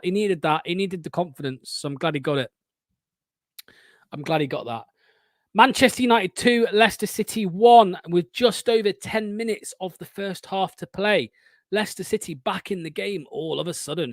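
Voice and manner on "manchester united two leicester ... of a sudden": live sports announcer recap, starting loud and settling; commentator score update. Real, not acted. Host updating viewers on Leicester's comeback, commentator style.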